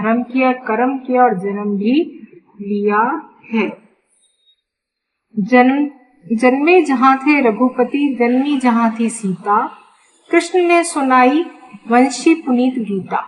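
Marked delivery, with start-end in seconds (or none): 5.4-13.2 measured verse reading with small pauses; poem recitation. Acted. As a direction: recite the lines of a Hindi poem.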